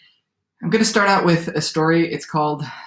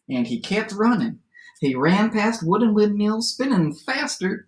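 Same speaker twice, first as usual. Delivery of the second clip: lively storyteller read-aloud with swooping pitch; story narration; 7 semitones higher than usual. A narrator's reading. Teacher reads a favorite adapted fairy tale aloud, lively storytelling. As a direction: read it to children as a tall tale.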